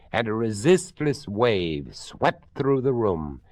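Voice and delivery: ordinary delivery, nothing marked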